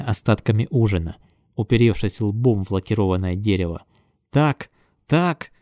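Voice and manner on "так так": high wild yell; frenzied yell. A narrator's reading. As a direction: yell like a beast. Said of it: "вопил озверевший токарь".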